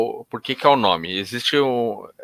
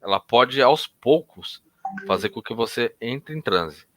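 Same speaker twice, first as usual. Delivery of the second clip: hypnotist easing a client into trance; hypnotic suggestion; 3 dB quieter than usual. Shown as a demonstration. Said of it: "eu vou falar".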